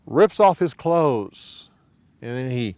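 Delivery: ordinary talk, nothing marked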